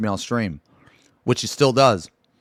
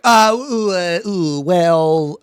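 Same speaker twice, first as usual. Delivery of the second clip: a mocking, flustered stammer; imitating stammer; 5 semitones higher, much slower than usual. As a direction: hem and haw like you're caught out. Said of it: "And he was like".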